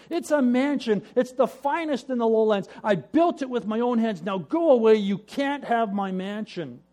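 loud, high and stubborn; indignant insistence. Acted. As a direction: defend your home fiercely. Brother defends his hut.

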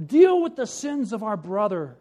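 loud, high, gloating accusations; a tattletale thrilled to denounce; eager shout. Acted. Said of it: "he shouted".

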